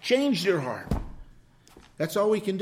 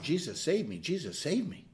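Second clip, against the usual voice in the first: soft breath prayer; 2 semitones lower, 7 dB quieter than usual. Retold or imitated. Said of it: "every breath should come out".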